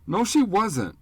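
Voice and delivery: put-on high, loud childish denial; furious boy refusing the news of his mother's death; angry child. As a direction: snap back in a boy's defiant cry. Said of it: "Pete said angrily".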